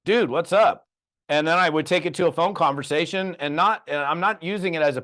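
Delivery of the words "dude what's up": excited greeting. Retold or imitated. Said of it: "And he's like".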